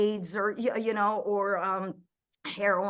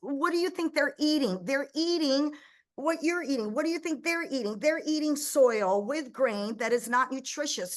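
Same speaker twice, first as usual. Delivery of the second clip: impassioned lecture; 4 semitones higher than usual. Retold or imitated. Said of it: "And I go".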